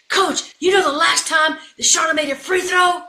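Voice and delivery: high, loud objection; incredulous protest. Retold or imitated. Assistants objecting to the substitution, incredulous. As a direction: argue with the boss in comic alarm.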